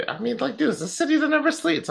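high, laughing excitement; excited. Real, not acted. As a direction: gush about the city with a laugh. Raving about Vegas nightlife.

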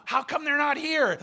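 mock a friend's mild exasperation; mildly upset. Upset friend waiting for the hostess, mildly exasperated. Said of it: "the guy's getting really upset".

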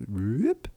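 rising "whoop" sound effect; a whoop that slides upward; playful whoop. Real, not acted. Imitates zoom while enlarging screen.

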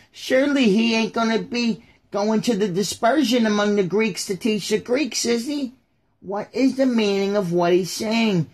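hammed-up bewildered heckler; baffled crowd member. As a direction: play a confused onlooker demanding answers.

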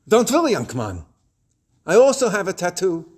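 lightly voiced elderly man's Yiddish-accented English; a touch of heavy Yiddish European accent. Elderly neighbor reassuring an embarrassed young man, Yiddish European accent. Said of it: "in his heavily Yiddishy European accent".

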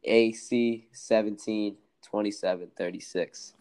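slow, spaced-out letters and numbers; slow repeat. Shown as a demonstration. Podcaster repeating a Snapchat name for listeners, slowly. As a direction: read it out slowly, pausing between groups. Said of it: "I'll say it again slowly".

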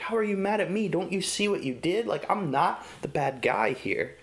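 put-on playfully indignant, pleading with the baby; exasperated disbelief. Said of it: "I'm looking at this and I'm like".

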